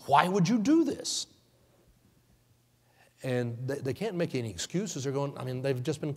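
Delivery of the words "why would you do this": higher, louder, rising on do; louder accusation. Acted. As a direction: press the question harder. The speaker repeats, more forcefully.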